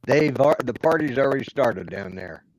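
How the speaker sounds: bad connection cutting in and out; choppy audio. Real, not acted. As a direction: audio breaking up. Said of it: "what is that chopping sound?".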